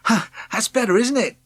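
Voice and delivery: high, bright and cheerful; a young boy brightly cheering up an old man. Acted. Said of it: "Jonas said brightly".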